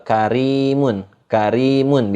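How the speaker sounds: karimun with a light, thin r. Shown as a demonstration. Teacher correcting thick reading, thin ro in karimun. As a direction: keep the r in karimun thin, long ee after it. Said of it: "enggak dibaca tebal".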